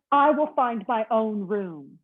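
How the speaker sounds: slow, deliberate resolve; slow firm declaration. Acted. Mister Snore declaring to the bellhop, mock firm. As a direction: spell it out word by word. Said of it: "declared Mister Snore".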